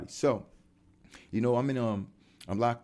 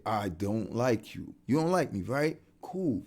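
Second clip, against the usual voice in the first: calm demo. Shown as a demonstration. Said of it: "Let me help you say it".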